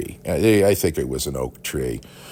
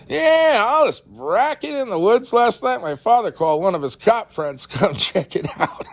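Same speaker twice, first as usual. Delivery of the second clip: put-on very high, loud excited kid voice; a kid bursting with the news; excited friend; 5 dB louder than usual. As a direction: blurt it out like a breathless boy. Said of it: "his father is the county prosecutor".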